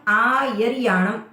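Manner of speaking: "आयरियाणम" slowly, first आ held long; "आयरियाणम" with a drawn-out first vowel; long opening aa. Shown as a demonstration. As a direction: hold the aa of "आयरियाणम", then a short ri. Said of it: "आ को थोड़ा लंबा लेके".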